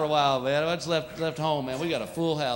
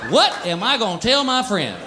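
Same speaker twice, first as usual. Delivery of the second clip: mock wounded cat; 5 semitones higher than usual. Neutered cat complaining to its owner, hammed-up indignant. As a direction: play the cat fishing for guilt. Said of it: "It's like".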